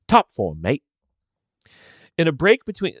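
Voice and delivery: mock British accent, lightly done; chirpy British "top form, mate"; English accent. Shown as a demonstration. Reading a fan's email in a jokey British accent. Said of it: "that was my English accent".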